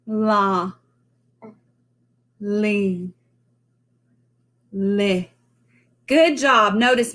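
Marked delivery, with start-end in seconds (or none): 0.1-5.3 "La", "li", "li" said slowly with a clear L and no lip movement; L syllable drill. Shown as a demonstration. Teacher drills L syllables, clear slow model. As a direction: model "La, li, li" for the kids to copy. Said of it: "let's try".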